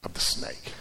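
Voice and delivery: hushed, breathy whisper on "snake"; eerie whisper. Acted. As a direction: breathe out the words like a secret. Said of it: "And that is the voice".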